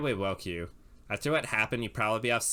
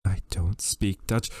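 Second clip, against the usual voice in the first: put-on character voice; 5 dB louder, slower than usual. Shown as a demonstration. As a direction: say it slowly in a different voice. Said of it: "line said twice, second in a different voice".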